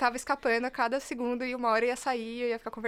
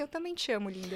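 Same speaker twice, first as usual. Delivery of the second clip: softly imitated sweet murmur; gently voiced lover's reply; tender retold reply; 4 semitones lower, 8 dB quieter than usual. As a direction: drop softer, as if lying beside a partner.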